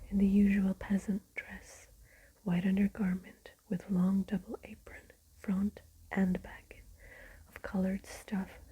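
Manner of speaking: whispered storytelling, every word unvoiced; ASMR whisper. Real, not acted. Whispering Dracula aloud to listeners winding down, ASMR whisper. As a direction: read the book in a steady ASMR whisper. Whispered chat then reading.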